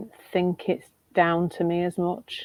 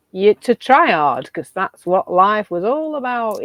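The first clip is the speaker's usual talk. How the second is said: put-on Yorkshire accent; 3 semitones higher, 6 dB louder, slower than usual. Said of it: "my best Yorkshire accent there".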